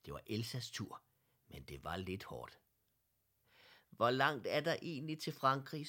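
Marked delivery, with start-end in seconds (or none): 3.9-5.9 higher, louder, mildly winded question; slightly out of breath. A narrator's reading. Elsa to Herr Ellegaard while cycling, slightly out of breath. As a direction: ask with a touch of puffing. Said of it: "spurgte Elsa lidt forpustet".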